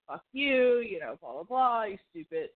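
lightly voiced angry driver yelling; half-hearted mock rant at an American; angry guy in traffic, mildly imitated; angry driver quote. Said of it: "he's like".

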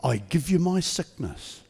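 slow, measured prayer for the church to repeat; prayer leading. Acted. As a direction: lead them line by line in prayer.

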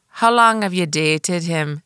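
slow, lightly imitated Jamaican cabbie; Jamaican cabbie accent. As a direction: question in a rough Jamaican accent. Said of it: "she was Jamaican".

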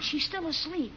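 soft hushed warning; librarian shushing whisper. Acted. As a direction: keep it down, sister sleeps. Hushing so sister sleeps.

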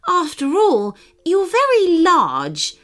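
haughty, dismissive brush-off; curt. Acted. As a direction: cut him down coldly. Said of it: "the swan said curtly".

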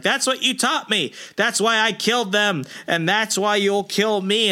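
high, bitter confession; throwing the blame back at him; confessing villain. Retold or imitated. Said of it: "He's like".

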